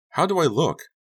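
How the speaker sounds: put-on high, loud child's question; excited little boy. Donnie in monster mask shows off, high child voice. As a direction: show off as a small boy.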